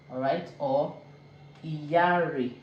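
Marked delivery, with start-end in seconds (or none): 1.6-2.5 Iyare with the double R drawn out; stressed R in Iyare. Shown as a demonstration. Teacher giving a second example, R stressed in Iyare. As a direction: lean on the R in Iyare. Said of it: "is more stressed".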